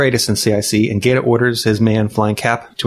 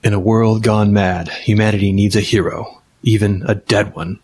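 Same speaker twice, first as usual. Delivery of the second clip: hammed-up epic trailer narration; old sci-fi announcer; 2 semitones lower than usual. Mock movie trailer narration.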